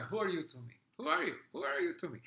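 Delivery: snooty Russian decorator flinging his line; Russian catchphrase. Acted. Showing his soap opera character's Russian catchphrase, haughty. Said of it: "that was my catchphrase".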